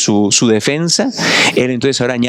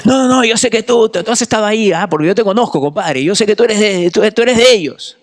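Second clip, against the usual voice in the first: put-on Peruvian accent; 8 semitones higher than usual. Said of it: "todos hayan tenido allá un acento peruano". (acusador con acento peruano, agudo y fuerte)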